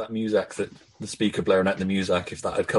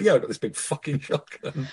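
quoting while giggling; laughing through quote; 4 semitones higher, 3 dB quieter than usual. Retold or imitated.

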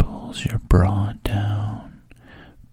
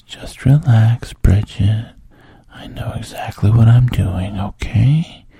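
voiced, louder coaxing lines breaking out of the whisper; coaxing man; 6 dB louder than usual. The man reassuring Bridget, louder coaxing voice. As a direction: lean in and reassure her out loud.

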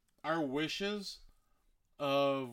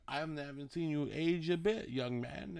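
put-on old man voice; 4 dB quieter than usual. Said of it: "that's my old man voice".

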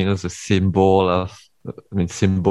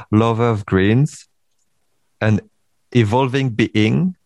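reading aloud. Acted. Reads out a bio slowly.

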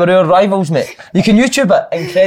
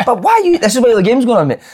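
put-on Italian accent; 9 semitones higher than usual. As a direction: ask it like a baffled Italian manager. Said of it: "That Italian accent".

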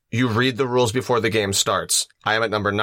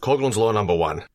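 put-on Aussie announcement; Australian accent; 2 semitones lower than usual. Co-host announces a drinking-game rule, mock Australian accent. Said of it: "in the Australian accent?".

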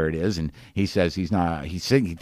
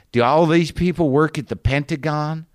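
higher-pitched imitation of an attention-seeker; mock showy question to the whole carriage; talking for an audience; 7 semitones higher, 3 dB louder than usual. Woman on a train angling for attention, showily. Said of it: "she's talking as if there's an audience listening to her".

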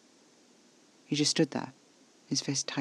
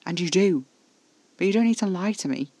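high, loud, heated insistence; insistent pleading; 6 semitones higher, 8 dB louder than usual. A narrator's reading. Telling Casper not to lie, insistent. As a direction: press the point with raised voice. Arguing with Casper about lying.

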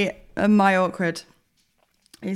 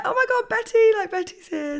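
gushing receptionist; 13 semitones higher than usual. Retold or imitated. Receptionist gushing over Betty, the regular dog, in a high squeal. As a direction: coo the dog's name like a thrilled receptionist.

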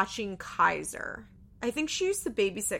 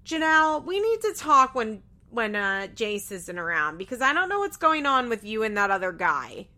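stern mother; 5 dB louder than usual. Retold or imitated. Barbara confronting Janelle about the other guy, loud scolding. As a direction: scold her like a protective grandmother. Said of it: "Barbara's like".

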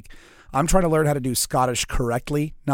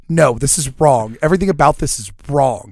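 retold outrage; 5 dB louder than usual. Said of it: "I was like".

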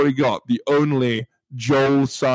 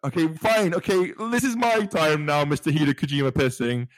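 higher-pitched playful telling-off; mock indignation; 3 semitones higher than usual. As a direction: stake your claim to the floor, mock-huffy. Mock-scolding co-hosts to get his turn.

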